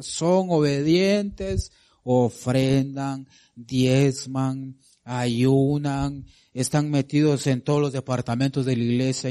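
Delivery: drawn-out listing of good deeds, each word stretched; preacher slowly listing the faithful's works; slow preaching. Acted. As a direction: lay out the virtues slowly, one by one. Slow preaching list of virtues.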